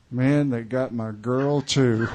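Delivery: put-on slow, loud drunken alarm; drunk dismay. Drunk man to the cop about his open fly, loud slow dismay. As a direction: wail it out like a drunk who just noticed.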